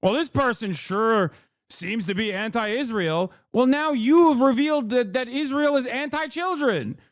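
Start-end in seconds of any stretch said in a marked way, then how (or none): 0.0-3.3 a lightly voiced smug critic; mocking critic. Mocking Zionist critics, a touch smug and sneering. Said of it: "and you immediately go".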